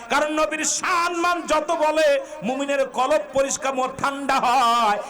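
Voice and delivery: high, ringing sermon delivery; fervent preaching. Real, not acted. Preacher rousing believers about love of the Prophet, high and fervent. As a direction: drive each phrase up and stretch its ending.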